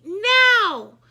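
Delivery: sharp high loud command; shouted order. A narrator's reading. The teacher ordering Emily out, a sharp loud command. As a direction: bark it. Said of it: "shouted Miss Daisy".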